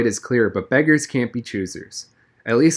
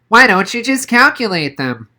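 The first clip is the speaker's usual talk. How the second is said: put-on high, louder puzzled kid question; bewildered Noah; 10 semitones higher, 6 dB louder than usual. A narrator's reading. Noah asking Donovan why he doesn't calculate, bewildered. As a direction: ask it as if it's obvious. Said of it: "Noah seemed genuinely bewildered".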